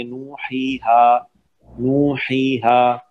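"नू, ही, हा" recited twice with evenly held vowels; two-count madd. Shown as a demonstration. Teacher repeating the word for a student, two-count held vowels. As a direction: model "नू, ही, हा" in long, even syllables. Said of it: "ऐसे पढ़ेंगे".

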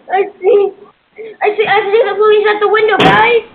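urgent, hurried play-acted warning; mock alarm. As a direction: warn the others in a pretend panic. Pretend alarm over police outside.

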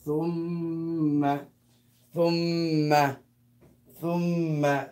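thumma with the m held long; held double m. Shown as a demonstration. Teacher sounding out a Quran word, held double m. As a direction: draw out the m in "thumma". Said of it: "So how do you sound it?".

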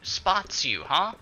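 high, slow outraged shout; exasperated yell. Real, not acted. Gamer outraged an enemy spotted her, slow yell. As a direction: protest loudly at the game.

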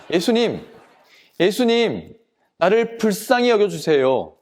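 calling out. Acted. Blind man calling to Jesus as he passes, calling out. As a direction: call out for mercy, lightly acted. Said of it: "크게 외쳤어요".

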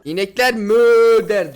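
slow, loud, drawn-out reading of the sign; mock sign reading. Gamer reads the in-game sign to viewers, slow and loud. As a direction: spell out the cow line slowly and loudly. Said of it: "Ne diyor?".

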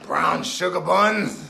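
put-on low, slow yelled baby words; baby shout. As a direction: bellow it like a cranky baby.

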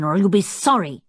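fierce warning with a menacing edge. A narrator's reading. Tinker warns someone off, in a fierce voice. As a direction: threaten it, fiercely. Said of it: "said Tinker in a fierce voice".

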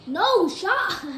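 high, loud incredulous cry; loud disbelief. Real, not acted. Gamer stunned by the game, loud disbelief. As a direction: exclaim it in disbelief.

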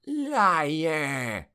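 snapped. A narrator's reading. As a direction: snap it as a haughty general's accusation. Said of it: "Fuerland snapped".

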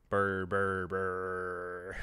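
drawn-out burrs on one low note; mock gunfire burrs. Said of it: "just to say burr".

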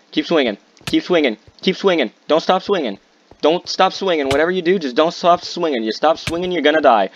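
high-pitched, insistent repeated chant; tense, strained-high gamer mantra; frantic urging. Real, not acted. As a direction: egg yourself on through a fight. Frantic self-urging mid-fight.

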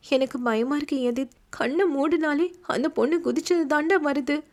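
mildly shaken plea. Acted. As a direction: voice of a scared young woman on the verge of tears. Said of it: "கலங்கிய குரலில் சொன்னாள்".

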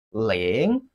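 "ling" dipping low, then rising; falling-rising tone. Shown as a demonstration. Teacher models Chinese zero for learners, falling-rising "ling". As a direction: draw out "ling" in a dip and rise. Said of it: "Falling and rising tone".

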